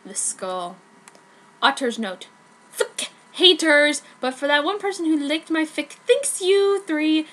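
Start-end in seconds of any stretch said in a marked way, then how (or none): 2.7-7.3 defiant author rant. Acted.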